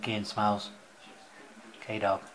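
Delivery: talking while chewing; words round a mouthful of food; chewing noisily. Real, not acted. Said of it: "Excuse me chewing on camera".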